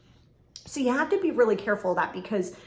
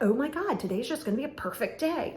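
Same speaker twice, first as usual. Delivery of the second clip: mock gushing, pitched higher; over-the-top positivity; 4 semitones higher than usual. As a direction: ham up sickly-sweet cheer. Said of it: "it can't be a nauseating type, over the top".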